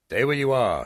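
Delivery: high, loud warning shout; shouted command. Acted. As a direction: shout to stop the dragon. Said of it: "he shouted".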